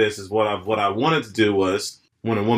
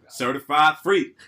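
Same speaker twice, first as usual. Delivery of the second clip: the same line, done as a guy; male version of her; 3 semitones higher, slower than usual. Retold or imitated. A friend repeating her line as a guy, laughing. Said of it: "I said it just like her, but in the male version".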